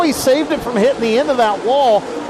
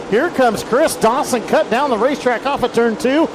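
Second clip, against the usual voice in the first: excited play-by-play; 3 semitones higher than usual. Real, not acted. Live call of a crash.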